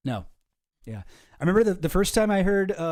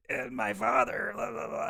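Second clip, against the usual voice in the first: mock teary voice; 7 semitones higher, 4 dB quieter than usual. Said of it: "he's constantly about to cry".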